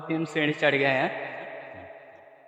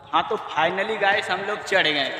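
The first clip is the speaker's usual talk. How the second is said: real excitement; 5 semitones higher than usual. Real, not acted. Climber telling viewers they finally made it up, excited. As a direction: announce it higher, stretching the words in relief.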